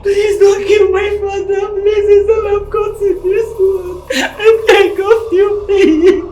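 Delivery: loud sobbing plea; crying plea. Acted. Daughter pleads with the kidnapper for her father's safety, crying loudly. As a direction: cry out and beg for his life.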